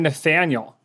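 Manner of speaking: "Nathaniel" in a hammed-up Boston accent; exaggerated Boston accent. Shown as a demonstration. Host coaches analyst on his name, exaggerated Boston accent. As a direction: overdo the Boston sound on "Nathaniel". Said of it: "That's a bit exaggerated".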